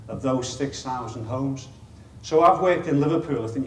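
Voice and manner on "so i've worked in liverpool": Liverpool accent. Real, not acted. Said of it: "you can tell that from, from the accent".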